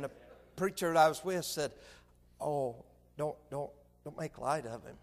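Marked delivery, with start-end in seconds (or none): 2.4-5.0 low, hushed imitation of a correction; gentle reproof. Preacher friend quietly correcting the man, softly reproving. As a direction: caution him softly, under the voice.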